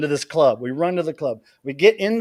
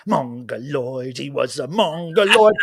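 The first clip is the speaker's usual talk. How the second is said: mock singer voice; slower than usual. Singer greets a worker with song.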